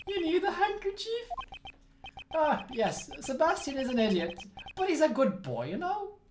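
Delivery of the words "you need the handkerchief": whispering. Acted. Son offers handkerchief, whispered.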